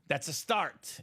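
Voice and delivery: "start" leaned on as the key word; stress on START. Real, not acted. Host qualifies the Favre offer, stress on "start". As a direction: land firmly on "start". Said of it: "Emphasis on the start there".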